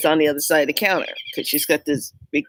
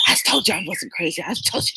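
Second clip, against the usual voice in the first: laughing vindication; 4 dB quieter, faster than usual. Retold or imitated. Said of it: "I said".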